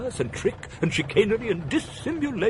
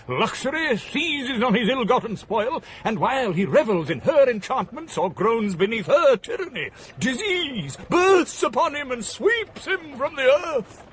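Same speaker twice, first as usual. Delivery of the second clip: rising impassioned shout; 4 semitones higher than usual. Acted. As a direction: thunder it out like a fiery orator, slowing to the end. Impassioned tirade against society.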